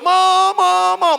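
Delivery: very high, drawn-out acted yell; retold yelling. Lost boy circling the shop for mum, acted high yell. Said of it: "Saya teriak".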